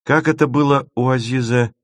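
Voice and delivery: задумчивый вопрос повыше; припоминая вслух, задумчиво. Acted. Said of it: "задумчиво промолвила Маша". (задумчиво)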